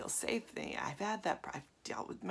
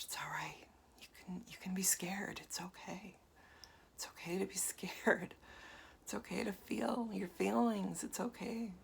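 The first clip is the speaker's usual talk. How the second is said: comforting. Retold or imitated. Comforting her little-girl self.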